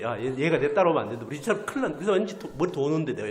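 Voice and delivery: loud, flustered worry; panicked inner voice. Retold or imitated. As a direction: blurt out the rising panic. Inner panic about child following. (당황해서 크게 허둥대며)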